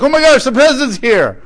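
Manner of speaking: high, loud burst of mock astonishment; freaking out. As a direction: exclaim it like a starstruck freak-out. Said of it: "they freak out".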